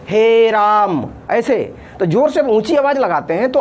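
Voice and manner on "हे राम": summoning someone across a courtyard; calling out. Shown as a demonstration. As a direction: call हे राम as if to someone far, louder. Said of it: "जैसे किसी को बुलाना है".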